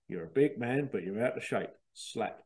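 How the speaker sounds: light stab at a Cockney film tough; Michael Caine. Acted. Speaker quoting a film line, half-hearted Michael Caine impression. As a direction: deliver a film line in mild imitation. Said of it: "in a Michael Caine accent".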